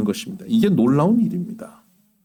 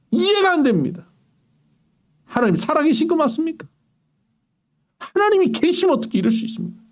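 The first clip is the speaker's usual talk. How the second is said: higher, pressing, indignant questions; arguing with God; 6 semitones higher than usual. Retold or imitated. A wronged believer confronting God in prayer, indignant protest. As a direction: demand answers from God with mounting protest. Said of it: "하고 따지는 것".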